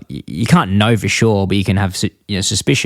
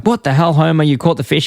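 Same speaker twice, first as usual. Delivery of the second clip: higher-pitched exasperated cartoon wife; mock scolding, pitched up; Marge; 5 semitones higher than usual. Wife catching her husband fishing, mock scolding. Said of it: "Marge catches him and she's like".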